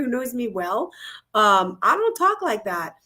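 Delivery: ordinary delivery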